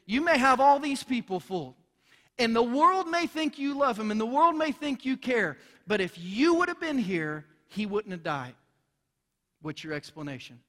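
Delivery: jab the finger and demand answers; furious grieving sister confronting Jesus; accusing. Retold or imitated. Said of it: "pointed her finger in Jesus' face and said".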